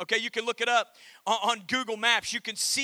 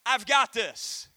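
calm assurance; slower than usual. Acted. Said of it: "God says".

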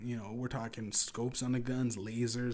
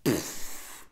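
short puffed explosion noise; imitated blast; 3 semitones lower, 4 dB louder than usual. Storyteller showing RPGs hitting the crowd, imitated blast. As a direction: blow out a quick mouth-made blast.

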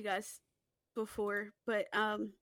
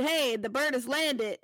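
botched code phrase. Retold or imitated. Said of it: "fucked the saying up and said".

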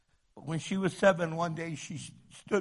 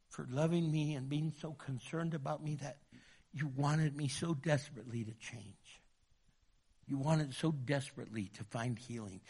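softer, sincere murmured thanks; soft prayerful thanks; 2 semitones lower, 6 dB quieter than usual. Acted. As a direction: pray it gently. Quiet gratitude prayer.

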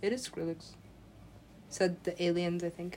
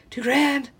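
loud, higher-pitched echo of disbelief; incredulous; 6 semitones higher, 7 dB louder than usual. Retold or imitated. Hearing of a gambling loss, incredulous and loud. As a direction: repeat it in shock.

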